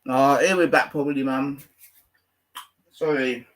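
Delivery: chewing while talking; words around food; mouth full. Real, not acted. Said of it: "I'm just chewing something".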